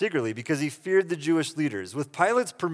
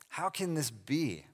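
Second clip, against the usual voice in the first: softer, slow, understated wonder; amazed; 8 dB quieter, slower than usual. Acted. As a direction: quietly act out Nicodemus's amazement. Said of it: "he is amazed multiple times".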